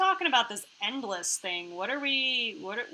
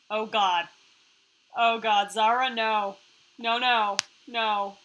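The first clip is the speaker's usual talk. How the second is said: loud, urgent string of refusals; alarmed protest; 5 dB louder, slower than usual. Acted. Player stops Zara from taking the weapon, loud alarmed protest. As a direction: protest loudly, as if heading off disaster.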